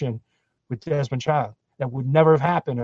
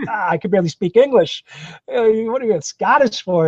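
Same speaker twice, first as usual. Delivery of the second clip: higher-pitched mock exasperation; incredulous retold protest; 7 semitones higher, 3 dB louder than usual. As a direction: protest in a raised pitch, acting out disbelief. Retelling his protest to director.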